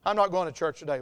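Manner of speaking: low, sulky mumble of self-pity; mock moping. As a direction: play a dejected churchgoer giving up. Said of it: "Sit around and mope".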